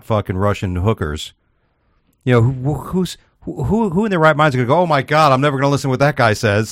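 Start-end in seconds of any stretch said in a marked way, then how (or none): 4.8-6.7 mock shock. Acting out an imagined outraged reaction.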